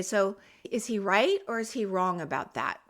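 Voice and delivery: even, unhurried question with no heat; calm parent question. Shown as a demonstration. Parent calmly questions the heated child, very calm. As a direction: ask it like the calm one in the room. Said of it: "Just very calmly".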